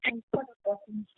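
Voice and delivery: breaking up on a bad line; choppy, robotic phone audio; glitchy robotic call. Real, not acted. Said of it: "your audio is breaking up".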